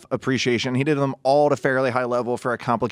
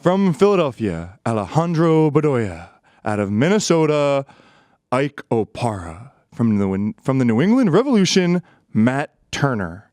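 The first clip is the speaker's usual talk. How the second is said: flat away-team call. Pretend. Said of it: "like they were the away team".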